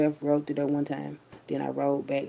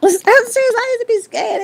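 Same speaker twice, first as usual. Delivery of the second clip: high, loud laughing insistence; 13 dB louder than usual. Real, not acted. To listeners, admitting fear of the bodies, laughing loud. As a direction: laugh while swearing it's true. Laughing about being scared.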